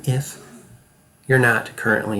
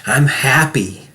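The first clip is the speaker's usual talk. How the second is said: happy; 3 dB louder, slower than usual. Shown as a demonstration. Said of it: "I want you to watch me".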